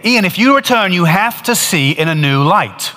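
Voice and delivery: voice of God. Retold or imitated. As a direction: repeat the call from the light, gravely. Teller repeats God's words.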